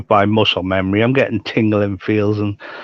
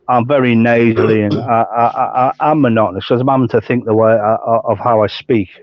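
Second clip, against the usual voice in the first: numb mouth after stroke. Real, not acted. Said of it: "'cause my mouth is numb".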